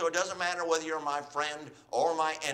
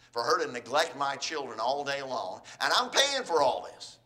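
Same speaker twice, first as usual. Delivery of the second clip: building resentment; 7 semitones lower than usual. Acted. Spouse paying for everything after divorce, increasingly indignant.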